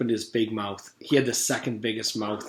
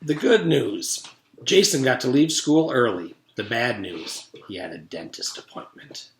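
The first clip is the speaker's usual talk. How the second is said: story narration; 4 dB louder than usual. A narrator's reading. Reading a story to the listeners, lively. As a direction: read aloud to children, lively.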